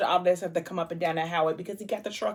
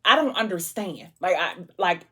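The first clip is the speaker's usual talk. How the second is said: bewildered protest. Retold or imitated. Ethic confronts gunman.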